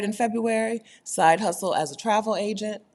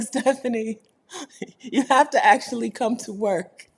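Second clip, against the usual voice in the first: mock boss; 6 semitones higher, 4 dB louder than usual. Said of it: "They be like".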